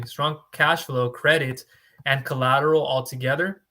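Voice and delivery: careful restart after a slip; slow and deliberate. Shown as a demonstration. Broker to viewers, correcting himself, slow and spaced out. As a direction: spell out each item slowly, one by one. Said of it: "uh, excuse me".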